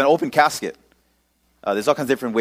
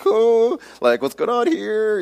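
retold alarm; 10 semitones higher, slower than usual. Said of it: "my heart starts beating fast".

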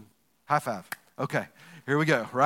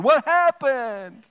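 higher, louder, slow confused question; puzzled what happened; 7 semitones higher, 5 dB louder, much slower than usual. Retold or imitated. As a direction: drag it out, lost. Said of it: "Somebody's going".

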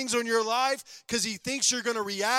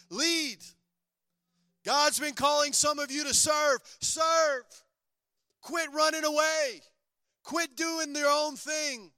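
higher, rising fiery exhortation; preaching at full force; 6 semitones higher, slower than usual. Acted. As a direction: build to a passionate call.

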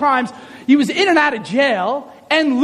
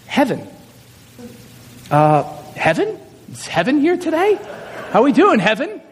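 hesitant roll-call delivery; straight-faced teacher. Retold or imitated. Teacher calling first-day roll, straight-faced. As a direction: read the odd name carefully, holding a straight face. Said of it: "you have to keep a straight face".

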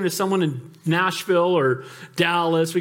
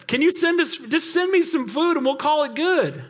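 Hiram retold; 6 semitones higher than usual. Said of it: "And so he says".

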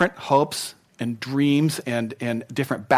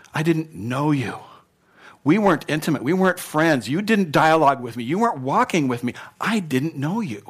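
solemn Jesus. Acted. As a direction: speak as the Lord, heavy and personal. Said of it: "That's not what this is".

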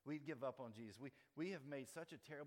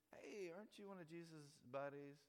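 lightly voiced bystander, higher pitched; a hint of a prying onlooker, raised pitch; nosy stranger; 5 semitones higher than usual. Second stranger questioning Peter, lightly nosy.

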